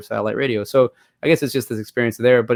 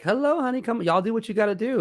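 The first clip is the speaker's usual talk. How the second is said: mom's invitation; 11 semitones higher than usual. Retold or imitated. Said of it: "a mom from the girl is like".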